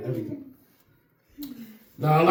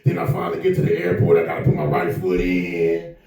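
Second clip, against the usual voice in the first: much lower, heavy comedian voice; Lavelle Crawford impression; 11 semitones lower than usual. Comedian imitating Lavelle Crawford at the airport, much lower. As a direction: drop way down into a big deep voice. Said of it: "This is Lavelle Crawford".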